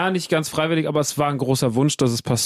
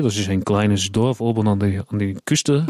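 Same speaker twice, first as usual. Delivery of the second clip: put-on Dutch accent; 4 semitones lower than usual. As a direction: lower voice with a Dutch lilt. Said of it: "kannst du bitte die ganze Zeit so reden".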